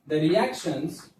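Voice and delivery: word-by-word classroom dictation, long gaps; slow dictation. Real, not acted. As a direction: dictate slowly while students copy it down. Dictating a definition for copying.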